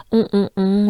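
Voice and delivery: On whispered, nasal on sound. Shown as a demonstration. Teacher drills the On sound, whispered. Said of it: "in your mouth and in your nose".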